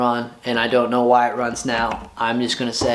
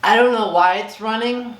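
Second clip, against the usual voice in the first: much higher, delighted bafflement; baffled; 9 semitones higher than usual. Real, not acted. Owner grins at his roaring motorcycle, giddy and baffled. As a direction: say "I don't know why it's running" with giddy disbelief. Bike running, baffled and excited.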